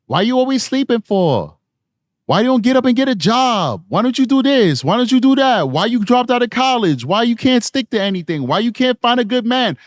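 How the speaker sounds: mock Puerto Rican accent, pitched high; nagging parent in a put-on Puerto Rican accent; terrible Puerto Rican accent. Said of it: "I said it in my terrible Puerto Rican accent".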